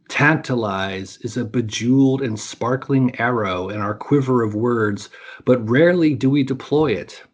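measured, dramatic storytelling voice; epic fantasy narrator. A narrator's reading. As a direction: tell the myth like an epic saga. Reads a myth aloud as storyteller.

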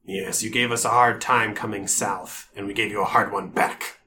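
a gruff orc sizing them up. Acted. GM voicing orc guard.

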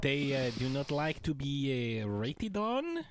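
put-on goofy French-Canadian accent, Borat-like; hammy French accent, halting English; Patrice Bergeron French accent. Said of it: "why does Patrice Bergeron sound like Borat?".

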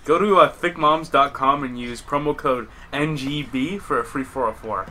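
slow mock sponsor plug; ad read. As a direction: read it like a podcast ad.

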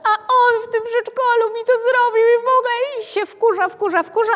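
wysoki, skarżący się głosik dziecka; naśladowany dziecięcy głos. Retold or imitated. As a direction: udaj dziecko, które się żali na kolegę. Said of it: "Przychodzi dziecko i mówi". (przedszkolak skarży się mamie, wysokim piskliwym głosem)

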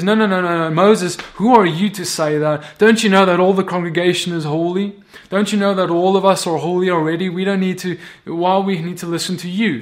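defiant challenge. Acted. Korah confronting Moses over holiness, defiant. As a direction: cut in and challenge his authority. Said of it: "now Korah's coming and he says".

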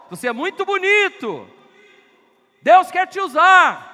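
preacher shouting praise into a cave; shouting encouragement. Shown as a demonstration. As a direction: call out blessings at full voice. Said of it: "Quer ver só?".

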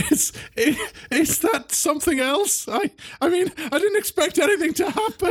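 high, stammering schoolboy; flustered pupil. Acted. Pupil who accidentally animated the dummy, flustered and high. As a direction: apologise in nervous confusion.

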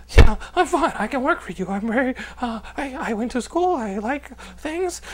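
high-pitched nervous reassurance; shaken, rattled. Acted. Shaken candidate answering the interviewer, nervous and halting. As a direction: stammer through it, badly rattled. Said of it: "I was shaking".

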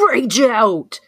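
drawn-out growing cry of rage; raging. Acted. Player declaring her character's rage, hammed-up. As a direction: build into a slow, mock-furious roar.

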